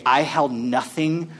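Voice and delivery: hushed, slow paraphrase of "except Jesus Christ and him crucified"; slow and quiet. Shown as a demonstration. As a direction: let it sink in gently. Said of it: "The other way to say this statement".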